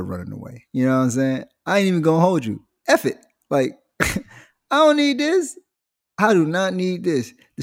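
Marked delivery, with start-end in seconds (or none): 2.9-7.3 put-on high, indignant kid declaring; huffy kid. Fed-up kid deciding to run away, high indignant. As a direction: storm off like a fed-up child.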